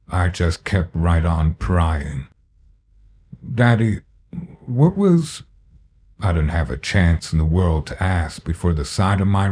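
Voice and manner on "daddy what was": put-on high, pleading child voice; a small boy's high plea; scared child. Scared child questions violent father.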